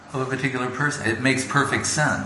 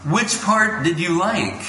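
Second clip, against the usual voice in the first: gentle probing guru; 6 semitones higher than usual. Retold or imitated. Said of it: "He goes".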